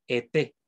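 "Été" with the final é stressed; stress on last syllable. Shown as a demonstration. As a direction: land the stress on the end of "Été". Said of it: "el acento siempre recae en la última sílaba". ("Été" con acento en la última sílaba)

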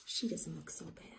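low hushed whisper; whispered thought. Acted. The dog quietly sizing up the witch. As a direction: think it aloud under your breath.

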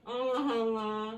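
muffled through tape over lips; mouth taped shut. Real, not acted. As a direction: talk with lips taped closed. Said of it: "ağzın bantlı".

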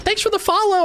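imitated enemy player. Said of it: "and then they were like".

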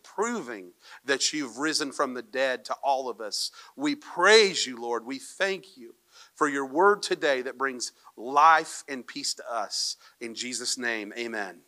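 low, softening prayer voice; earnest congregational prayer; spoken prayer. Real, not acted. Leads a prayer.

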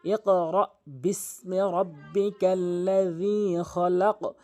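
ইকরা বিসমি রব্বিকাল্লাযী খলাক drawn out slowly in a chanted tune; slow recitation. Shown as a demonstration. Teacher reciting the verse for students, slow and measured. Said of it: "দুইবার পড়লেন".

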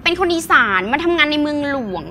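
playful mock Isan self intro; a hint of Tukky's voice; Tukky impression. Shown as a demonstration. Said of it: "ทำเป็นพี่ตุ๊กกี้".

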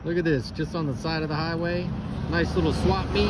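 over passing truck. Real, not acted. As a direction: speak over a truck rumbling by. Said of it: "Sorry for the train, uh, truck noise".

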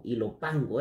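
Ilopango with an a in "pango"; corrected place name. Real, not acted. Vlogger fixing a misread city name, corrected place name. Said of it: "eh, perdón".

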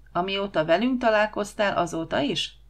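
cheekily needling question; cheeky. Acted. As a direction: ask with impudent teasing. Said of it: "kérdezte szemtelenül Huba".

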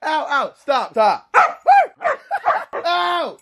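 pained high yelps; tripping and falling. Real, not acted. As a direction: cry out while going down. Dog tramples him, falls.

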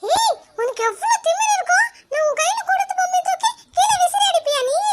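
high, indignant telling-off; angry scolding. Acted. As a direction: scold the little sister sharply. Brother scolds sister for throwing doll. (தங்கையை கோபமாக திட்டும் அண்ணன்)

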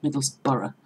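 "Middlesbrough" as middles-borough; outsiders' mispronunciation. Shown as a demonstration. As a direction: stretch the end of "Middlesbrough" into two syllables. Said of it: "tend to pronounce it".

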